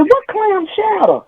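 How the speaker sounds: high, slow puzzled squeak; high confused squeal. Retold or imitated. She asks her sister-in-law, in a high slow squeak. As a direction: squeak it out, drawn out. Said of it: "I said".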